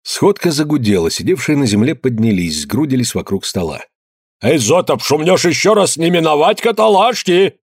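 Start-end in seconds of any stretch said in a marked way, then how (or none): 4.4-7.5 raised, stern shout over the crowd; shouted warning. A narrator's reading. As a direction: village elder shouting down a troublemaker. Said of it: "крикнул староста".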